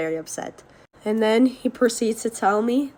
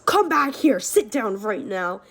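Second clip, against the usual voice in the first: raised opening, then slow, firm command; mock angry order; slower than usual. Stepdad ordering fleeing friend back, mock angry. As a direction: imitate an angry parent giving orders. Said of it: "he's just going ham".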